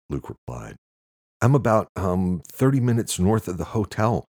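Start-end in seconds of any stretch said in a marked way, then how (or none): 1.4-4.3 raised, louder, keyed-up report; wound-up caller on the move; manic. A narrator's reading. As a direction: report it in an agitated high pitch. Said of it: "He sounded manic and out of breath".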